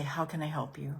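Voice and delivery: soft, caring questions, fading; quiet What do you need from me now; gentle question. Shown as a demonstration. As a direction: ask the hurt kindly. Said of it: "you're gonna say".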